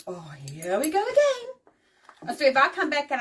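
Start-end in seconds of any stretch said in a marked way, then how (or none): 0.1-1.5 weary resignation. Retold or imitated. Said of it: "I'm like".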